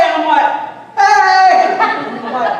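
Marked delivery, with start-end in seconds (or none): 1.0-1.8 loud, high, overdone hello; feigned recognition. Retold or imitated. Pastor greeting someone he can't place, hammed-up heartiness. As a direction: greet them heartily to cover a blank memory.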